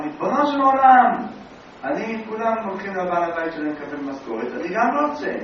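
loud, high plea to heaven; pleading shout upward; calling to God. Acted. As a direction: cry out to the Master of the World. Rabbi calls out to God.

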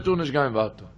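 said low and soft, trailing off. Shown as a demonstration. Preacher first says the warning softly, then quietly. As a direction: let it sink down quietly. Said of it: "repeated line, soft first".

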